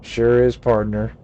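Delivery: "Sure is" punched loud and twangy; lightly voiced old cowboy hollering "Sure is"; cowboy drawl. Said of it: "Gabby doesn't talk like that".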